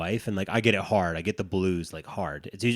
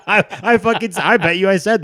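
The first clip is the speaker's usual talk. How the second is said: laughing through the words; cracking up mid-sentence; 10 semitones higher, 11 dB louder than usual. Real, not acted. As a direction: breaks into laughter while starting to talk. Laughing at own remark.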